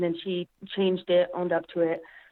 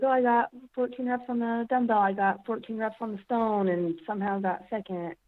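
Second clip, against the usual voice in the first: retold upset; 4 semitones higher than usual. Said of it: "I was like".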